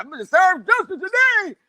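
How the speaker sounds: high mocking voice, squeaky and loud; high comic impression of an overeager official; Fire Marshal Bill. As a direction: mimic a cartoonish busybody. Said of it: "He's like".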